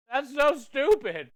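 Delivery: loud, slow, pained exclamation; exasperated outburst. Real, not acted. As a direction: cry it out as the heat hits. Eating ghost pepper brittle.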